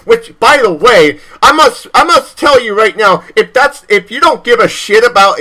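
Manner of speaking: getting worked up, voice rising; heated rant. Real, not acted. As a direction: pitch jumps up in a heated rant. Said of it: "I'm sorry I got heated".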